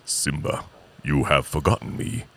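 low, solemn ghost of a lion father; deep, measured, kingly reproach; James Earl Jones. Acted. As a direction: intone it from the clouds. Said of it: "he comes to him in the clouds, and he says".

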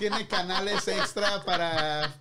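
drawn out slowly through laughter; slow laughing. Real, not acted. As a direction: stretch it out while laughing. Teasing about vibrator features.

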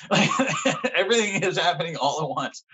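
high, laughing through the words. Real, not acted. Explaining to the host, laughing ruefully. Laughs while retelling breakdown.

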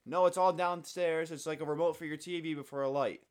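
exasperated explaining. Retold or imitated. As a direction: spell it out to a confused customer. Explaining to old lady, exasperated.

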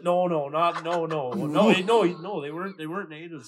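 loose mock Native accent, half laughing; retelling a guy's words in a put-on Native accent; hint of a Native accent, lightly done; imitated Native accent. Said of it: "You're doing a native accent".

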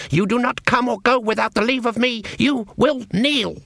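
a regal elf queen looking down on her; evil queen. A narrator's reading. Elf Queen commands Granny.

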